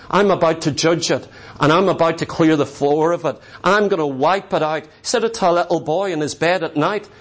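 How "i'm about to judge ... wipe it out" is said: lower, voicing God pronouncing judgment. God warning the boy Samuel at night, in a lower voice. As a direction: drop low as God speaking doom over the church.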